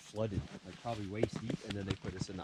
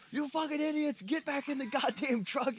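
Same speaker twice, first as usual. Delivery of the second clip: high, harsh yell, slowing on the last words; angry yell; 4 dB louder than usual. Retold or imitated. Cadre yelling at escaping trainees, mock angry yell. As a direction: bark it like a furious cadre. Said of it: "the dude get out, he's like".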